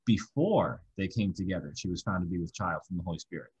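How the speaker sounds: Before leaned on, the rest falling away; stress on Before. Shown as a demonstration. Teacher reading a verse to his class, stressing Before. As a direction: open the verse by hitting Before. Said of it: "read phrases in the passage with an emphasis on different words".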